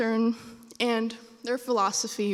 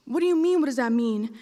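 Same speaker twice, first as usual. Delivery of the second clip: incredulous caller. Retold or imitated. Caller throws child's question back.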